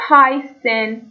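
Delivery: «هایسن» with a clear hissed "s" in the middle. Shown as a demonstration. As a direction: slowly model «هایسن» with an s sound. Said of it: "س". («هایسن» آهسته با صدای س)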